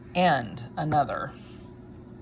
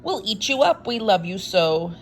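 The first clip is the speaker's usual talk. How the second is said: high, loud, slow pleading monsters; wild things begging Max to stay; crying out; 5 semitones higher, 9 dB louder, slower than usual. Acted. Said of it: "the wild things cried".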